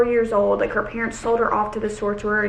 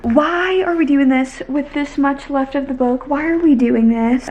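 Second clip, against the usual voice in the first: exasperated outcry; 3 semitones higher, 5 dB louder than usual. Real, not acted. Exasperated at the plot.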